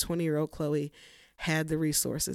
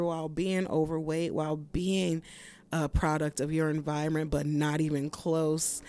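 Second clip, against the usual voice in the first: hyped self pep talk; 4 dB louder than usual. Retold or imitated. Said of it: "I literally was like".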